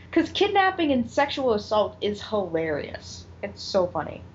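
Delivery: dripping with sarcasm, falling off at the end; sarcastic. Real, not acted. Host fed up with the show's joking about kidnapping, sarcastic. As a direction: say it as if you mean the opposite.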